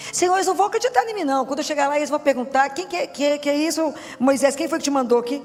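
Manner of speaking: high, hurried string of objections; Moses protesting to God. Acted. Moses objecting to God, acted dialogue.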